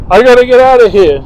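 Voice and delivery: high, loud frantic shriek; panicked scream. Retold or imitated. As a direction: yell it in a panic like a crashed driver. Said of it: "was like".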